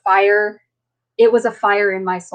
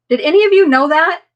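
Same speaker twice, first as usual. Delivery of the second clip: excited question; 7 semitones higher, 5 dB louder than usual. Retold or imitated. Doctor quizzing nurses, retold.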